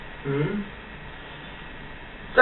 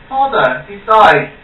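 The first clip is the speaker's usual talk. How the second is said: grieving prince; 6 semitones higher, 3 dB louder, slower than usual. Acted. Prince learns father died.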